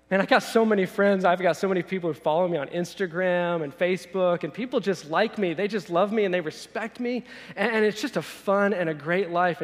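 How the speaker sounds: upbeat, pleased-with-himself bragging; boastful. Acted. Successful believer telling Jesus about himself, eager boasting. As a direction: rattle off your successes proudly.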